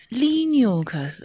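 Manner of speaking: Linux said like lee-nyoo-ks; quoting the listener's Linux, lee-nyoo-ks. Retold or imitated. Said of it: "那个叫". (转述听友的Linux读法，念成“里纽克斯”)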